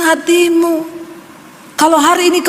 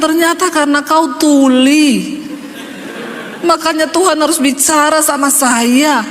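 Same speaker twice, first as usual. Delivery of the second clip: laughing. Retold or imitated. Laughing rebuke of husband.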